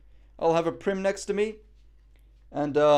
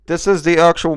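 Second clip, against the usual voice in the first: loud; 14 dB louder than usual. Real, not acted. Testing the mic loudly.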